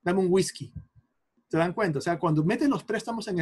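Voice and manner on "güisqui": "whisky" with a gw at the start; Spanish pronunciation. Shown as a demonstration. Teacher mimicking someone ordering a drink, güis-ki pronunciation. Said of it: "todo tú dices whisky".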